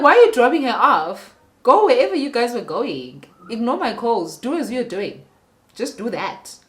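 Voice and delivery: loud, hurt outburst at her cheating husband; angry outburst. Retold or imitated. Retelling shouting at her husband.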